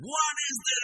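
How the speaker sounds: high, loud mock outrage; imitating fed-up passengers; exasperated passengers. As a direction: throw up your hands, loud and high. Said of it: "And everybody's like".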